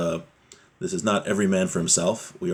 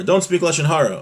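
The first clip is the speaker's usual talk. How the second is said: high, slightly louder mock reprimand; mock parental scolding; 9 semitones higher, 4 dB louder than usual. Parent telling his kids not to gossip, mock scolding. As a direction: scold the kids in a raised, higher voice.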